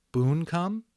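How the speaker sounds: Bright Stars asking doubtfully, rising at the end; a hesitant, hopeful plea; doubtful question. A narrator's reading. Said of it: "Then she said doubtfully".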